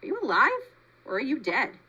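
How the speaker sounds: high, rising call from the shadows; a hidden creature hissing up at the robot, high. A narrator's reading. Possum calls down to the robot, high and hissing. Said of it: "The creature's voice hissed up".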